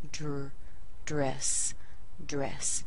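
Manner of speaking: "dress" built up from "Dr-", R ready during the D; blended D-R. Shown as a demonstration. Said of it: "R is already in place".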